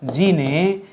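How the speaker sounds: very slow dictation. Shown as a demonstration. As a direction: dictate the corrected sentence slowly. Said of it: "क्या होना चाहिए?". (धीरे-धीरे बोलकर लिखवाइए)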